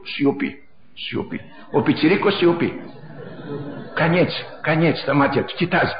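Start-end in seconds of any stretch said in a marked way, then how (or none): 0.0-1.4 soft whispered hush over a cradle. Acted. Preacher voicing the mother hushing her crying baby, whispered. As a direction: breathe the word out like soothing a baby.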